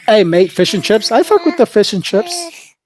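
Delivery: hammed-up British accent, pitched high; mock British accent. Mocking British rappers in a British accent. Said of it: "it's just that accent".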